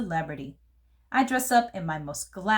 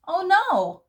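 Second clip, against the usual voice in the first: dismayed oh no; 10 semitones higher, 5 dB louder than usual. Acted. Realising no time for scrapbook.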